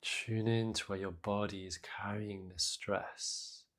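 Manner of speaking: soft, unhurried meditation guidance with long pauses; guided meditation. Acted. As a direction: gently guide listeners into their breath and body. Leads a breathing meditation.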